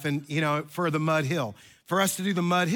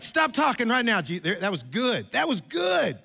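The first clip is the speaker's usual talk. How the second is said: exasperated publicist; 5 semitones higher than usual. Acted. Publicist urging Jesus to stop.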